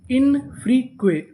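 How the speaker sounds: "इन फ्री क्वे" in three separate parts; syllable by syllable. Shown as a demonstration. Teacher adds a syllable for learners, "इन फ्री क्वे" piece by piece. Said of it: "इसे क्या पढ़ेंगे".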